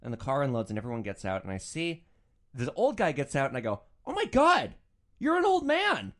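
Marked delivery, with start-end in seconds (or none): 4.1-6.1 very high, loud shriek of astonishment; shocked blurt. Retold or imitated. Driver seeing old guy get out, shocked outburst.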